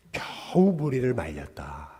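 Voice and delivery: 겨우 stretched out slowly, quietly; slow, soft quote dwelling on 겨우; drawn-out emphasis. Retold or imitated. Preacher quoting the verse to listeners, 겨우 drawn out.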